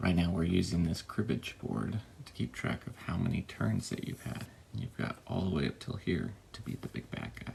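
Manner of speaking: hushed, very soft, very quiet whisper. Up early playtesting a game alone while family sleeps nearby, whispering. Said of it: "I'm whispering because my family is still asleep".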